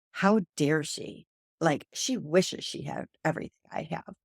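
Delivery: mock-offended, how dare she; indignant outrage. To her friend, imitating her own offended, defensive self. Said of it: "I was like".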